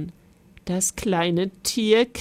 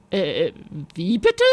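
surprised queen; 2 semitones lower than usual. Acted. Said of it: "rief die Königin".

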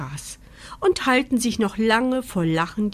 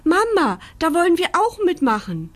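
bettelnde Küken; 9 semitones higher, 5 dB louder than usual. A narrator's reading. Entenküken betteln bei Mama.

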